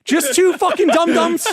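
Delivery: slow, high and laughing. Real, not acted. Laughing while calling the tenants dum-dums. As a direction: laugh through the insult.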